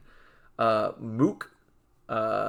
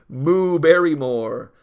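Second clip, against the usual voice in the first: louder, laughing through the name; giggling pun name; 4 semitones higher, 9 dB louder, slower than usual. Real, not acted. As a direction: crack up while saying it.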